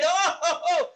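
high, laughing oh oh oh; delighted laughing exclamation. Real, not acted. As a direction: laugh out the realization. Her delighted reply to God.

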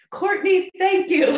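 high, loud, gushing gratitude; effusive imitated thanks. Upset pub stranger hugging her, imitated effusive thanks. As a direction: wail the thanks like an overcome stranger. Acting out grateful hugging woman.

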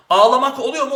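teacher hits Ağlamak to test the rule aloud; emphatic test. Shown as a demonstration. Teacher checking the vowel-swap trick with students, emphatic. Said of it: "dikkat lütfen".

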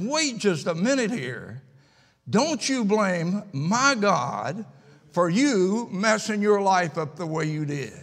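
mock-stern rebuke, key words drawn out; imitating indignant wife. Wife scolds the crying young woman, imitated indignant rebuke. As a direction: retell a wife losing it, slow and emphatic on the blame. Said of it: "when she loses it".

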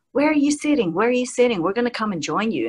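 put-on star voice, insistent questions; Kiefer Sutherland. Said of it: "And he goes".

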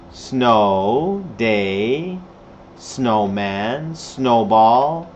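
low "Snow", "day", "snowman", each lifting at the end; rising drill tune. Shown as a demonstration. Teacher drilling winter words for repeating, low rising tune. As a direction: say "snowman" low with a slow upward glide.

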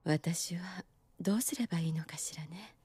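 soft whisper, half to herself; whispered musing. Real, not acted. Unsure whether to quit, whispering her doubt. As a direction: breathe it out, lost in thought.

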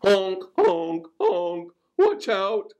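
high honking goose cry. A narrator's reading. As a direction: honk the warning like a goose. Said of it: "cried Goose".

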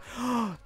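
surprised gasp. Real, not acted. Surprised by a teammate's help.

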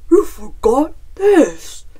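loud bear voice calling out; huffing bear. A narrator's reading. Bear catches up with Chicken, loud huffed call. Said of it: "huffed Bear, catching his breath".

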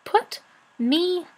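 cross, emphatic storybook snarl. A narrator's reading. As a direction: demand it word by word. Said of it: "snarled Rat".

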